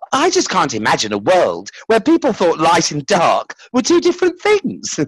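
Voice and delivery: put-on high, eager child's voice. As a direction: voice an amazed child.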